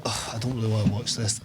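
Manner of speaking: quiet, unwilling groan; mock reluctant student at a film night; reluctant grumble. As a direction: sulk through it softly. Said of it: "doing that kinda".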